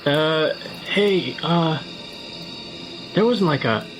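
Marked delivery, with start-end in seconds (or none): none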